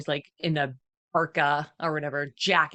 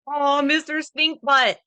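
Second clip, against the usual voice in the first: mock disgust; 7 semitones higher, 6 dB louder, slower than usual. Teasing the dog.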